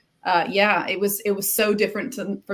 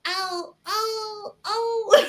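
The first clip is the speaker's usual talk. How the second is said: much higher panicked bunny "oh, oh, oh" through laughter; terrified bunny; 13 semitones higher, much slower than usual. Retold or imitated. Bunny sees four tigers, high mock panic with laughter. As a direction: play the cartoon bunny spotting four tigers, laughing as you do it. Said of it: "realize there's four of these monsters, like".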